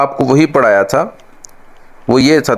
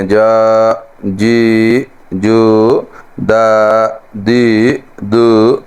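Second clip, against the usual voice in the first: Punjabi-style reading; much slower than usual. Retold or imitated. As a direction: read it like Punjabis do, the wrong way. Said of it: "جیسے ہمارے پنجابی جو ہیں". (پنجابی لہجے میں جا جی جو)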